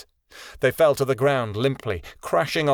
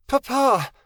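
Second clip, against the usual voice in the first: much higher, a small dragon's shout; child shouting; 12 semitones higher, 3 dB louder than usual. A narrator's reading. Hatchling shouting back to her father, high cry. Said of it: "Mirabel shouted".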